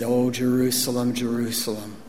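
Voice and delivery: low, soft, grieving call; quiet sorrow, held back; sorrowful lament. Retold or imitated. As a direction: gently voice a weeping Jesus, understated. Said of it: "Jesus is weeping".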